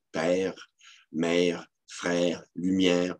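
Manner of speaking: "père, mère, frère" with è closed toward é; "lumière" said near "lumiére"; closed E pronunciation. Shown as a demonstration. Lecturer listing old forms, "père" toward "pére". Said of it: "comme un E accent aigu".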